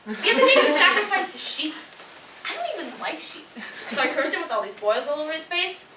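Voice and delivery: put-on lively, exasperated teen-style goddess with big pitch swings; petulant young goddess. Goddess venting about her crush on Apollo, petulant. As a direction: play a whiny, put-upon young immortal. Performs comic monologue as goddess.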